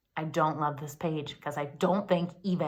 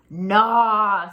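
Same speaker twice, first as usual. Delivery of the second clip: mother rat; 9 dB louder than usual. Acted. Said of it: "said the mother".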